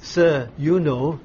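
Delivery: slow, deferential "Sir, you know"; a gentle, respectful reply to the elder. Retold or imitated. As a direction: hand the question back politely and slowly. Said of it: "very prudently and respectfully says".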